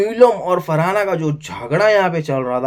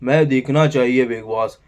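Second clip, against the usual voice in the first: lower, put-on voice of an ignored housemate; mock a singer; 4 semitones lower than usual. Vlogger mocking a singer-housemate begging Bigg Boss for camera focus, lower put-on voice. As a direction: lightly play a sulky guy begging for camera time. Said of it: "पता नहीं कहाँ था वो".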